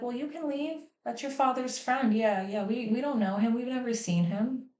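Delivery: lightly voiced defensive grandparent; mock dismissiveness. Grandparents excusing the father's friend, mock breezy dismissal.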